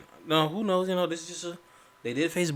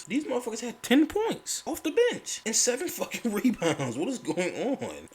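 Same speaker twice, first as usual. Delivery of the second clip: higher, laughing through the stat; laughing disbelief; 11 semitones higher than usual. Real, not acted. Fan reading awful bench stats, laughing disbelief.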